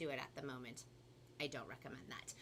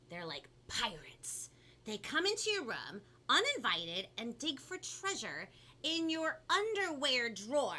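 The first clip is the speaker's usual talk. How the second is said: animated storybook reading with punched key words; lively, theatrical story narration; picture book read-aloud; 5 semitones higher, 5 dB louder than usual. A narrator's reading. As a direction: read it to children with big swoops of pitch. Reads picture book to children.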